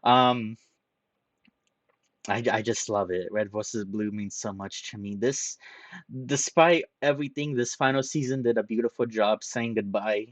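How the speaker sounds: choked-up goodbye to a favourite show; tearful, close to crying. Real, not acted. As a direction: voice rising and catching with emotion. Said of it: "I can't believe I'm actually crying".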